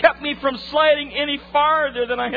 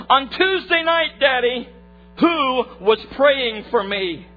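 cross-examining; 2 semitones higher, 4 dB louder, slower than usual. Retold or imitated. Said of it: "such a power of cross-examination".

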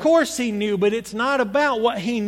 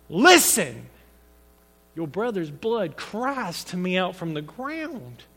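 brutal sternness. Shown as a demonstration. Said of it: "I can make it pretty brutal".

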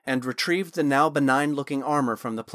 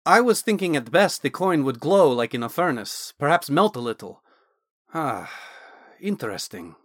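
lightly voiced scholarly mage, louder; a hint of an eager Dragonborn scholar; Naz the Dragonborn mage; 2 semitones higher, 4 dB louder than usual. Wizard Naz explaining the armor to Thorn, lightly voiced and louder.

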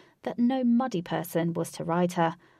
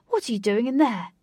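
amused call; 4 semitones higher, 7 dB louder than usual. Acted. Wraith amused calling out.

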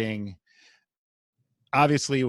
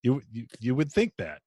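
sarcastic. Real, not acted. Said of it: "You detect the sarcasm".

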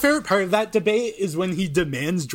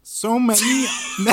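wavering mock-crying Peterson; hammed-up tearful Peterson; crying Peterson impression; 6 semitones higher than usual. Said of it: "read it like crying Peterson".

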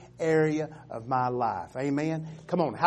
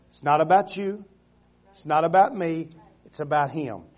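loud, punched statement; emphatic preaching; 6 dB louder than usual. Acted. Preacher telling the church it is not about them, loud. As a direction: hit it hard, then again.

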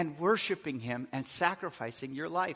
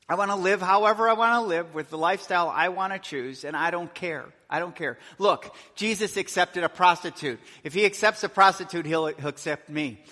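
louder, quick and dismissive; defiant excuse; 6 dB louder than usual. Retold or imitated. Someone excusing their lifestyle, defiant and fast. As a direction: toss it off like nobody can judge you. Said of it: "one perspective is".

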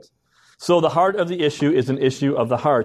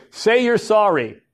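higher, slow parental command; parent's order; 5 semitones higher, slower than usual. Acted. Parent tells child who pushed the younger one, firm order. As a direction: order an apology in a drawn-out parent voice.

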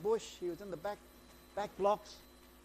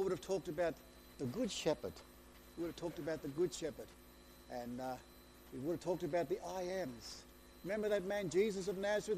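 ordinary talk, nothing marked

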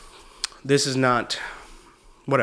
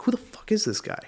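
incredulous inner thought; 10 semitones higher, 4 dB quieter than usual. Retold or imitated. Retelling his private reaction to a rude comic, incredulous. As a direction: think it aloud, pitched up and baffled. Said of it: "in my head, I was like".

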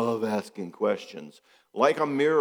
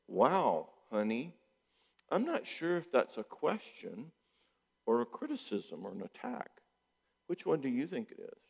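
calm question back; 3 semitones higher, 7 dB quieter than usual. Shown as a demonstration. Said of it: "I want him to say this".

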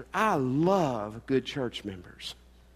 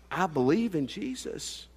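softly imitating a teared-up friend; halting, soft, mildly choked-up retelling; tearful; 5 dB quieter than usual. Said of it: "he kinda teared up".

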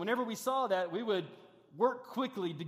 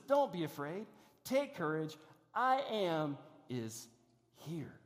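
gentle reassurance; 3 semitones lower, slower than usual. Acted. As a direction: comfort frightened friends. Preacher voicing Jesus' reassurance.

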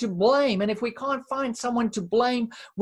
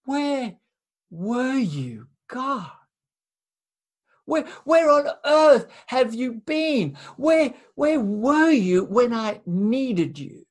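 protesting God; 2 semitones higher than usual. Acted. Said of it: "that's our question".

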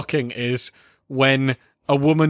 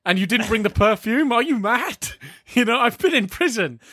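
mock lambasting; 7 semitones higher than usual. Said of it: "then he starts lambasting him".

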